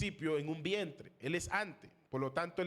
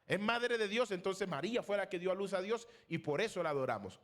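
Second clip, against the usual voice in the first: higher, lightly mocking voice of a believer; imitating Catholic believers; 3 semitones higher than usual. Pastor imitating Catholics' reasoning to his class, mock believer. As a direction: voice the claim as a naive devotee. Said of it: "algunos católicos lo interpretan así".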